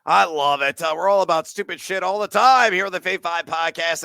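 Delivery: talking while winded; breathless after talking fast; out of breath. Real, not acted. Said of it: "and I'm out of breath".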